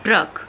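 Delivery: "ट्रक" said with a light ट and a strong rolled र; "ट्रक" demonstrated, with the ट light and the र heavy; clear pronunciation demo. Shown as a demonstration. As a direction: model "ट्रक" for the class, weighting the र. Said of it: "आप उच्चारण से भी इसको समझ सकते हैं".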